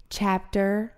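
stilted, word-by-word announcement with a long pause; mock your own careful first-grade reading; over-pronounced audiobook reading. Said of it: "wanted me to pronounce everything like this".

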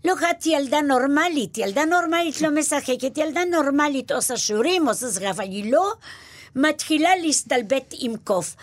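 a hint of a mother laying down the rules; mother lecturing her daughter about normal girls; lecturing Polish mother. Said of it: "אמא פולניה וככה".

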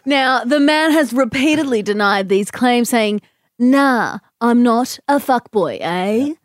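lightly done news reporter voice; newsreader voice. Pretend. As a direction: read it like a live field report. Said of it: "use your newsreader voice".

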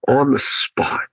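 hushed, whispered repeat for effect; whispered emphasis. Real, not acted. Speaker repeating how everybody signed up, whispered emphasis. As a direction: whisper it to let it sink in.

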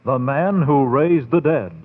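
put-on measured, old-time radio credits read; radio announcer. Announcer closing a radio terror programme, formal and measured.

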